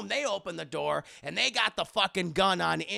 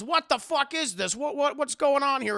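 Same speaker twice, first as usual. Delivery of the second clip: higher, louder mock outrage; irate bafflement; 6 semitones higher, 4 dB louder than usual. Villain finds pages missing, irate bafflement. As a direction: demand answers, voice raised.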